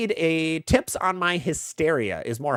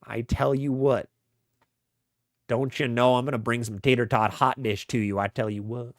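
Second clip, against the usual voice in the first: mock Minnesotan accent. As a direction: poke fun at a Minnesotan accent. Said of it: "Making fun of the Minnesotan accent".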